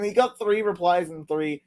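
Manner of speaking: slow words through laughter; laughing. Real, not acted. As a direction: crack up mid-sentence. Laughing at a tweet.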